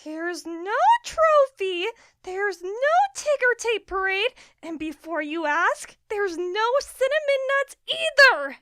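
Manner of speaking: words pushed through clenched teeth; through gritted teeth. Acted. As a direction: hold back anger behind teeth. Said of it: "through gritted teeth".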